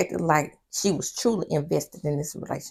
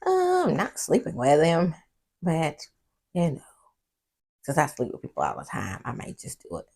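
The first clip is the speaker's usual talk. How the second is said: sarcastic. Retold or imitated. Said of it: "So in her sarcasm".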